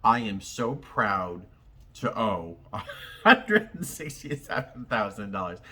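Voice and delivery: laughing through the words, proud; a proud giggle breaking in; grin in voice. Real, not acted. Vlogger tells viewers her debt, laughing proudly. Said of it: "there's a grin in my voice".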